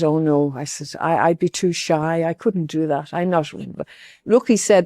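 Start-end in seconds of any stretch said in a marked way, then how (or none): 0.0-3.5 softer, lower, timid mock protest; shy refusal. Woman declining the priest's request to read, softly and shyly. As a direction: shrink away from the request.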